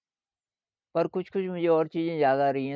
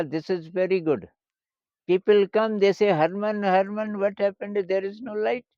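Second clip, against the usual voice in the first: retold in a higher, raised voice; lightly voiced Englishman; 6 semitones higher, 5 dB louder, much slower than usual. Banjo player complains to his new listener about the light, lightly imitated, high-pitched. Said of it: "जो बजा रहा था अंग्रेज़ था".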